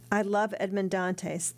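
cold, slow and firm; said coldly. Acted. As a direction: state it coldly, weighing each word. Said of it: "the young woman said coldly".

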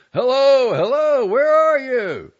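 very high, loud urgent call. A narrator's reading. Husband calling urgently through the house, loud high call. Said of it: "continued to call".

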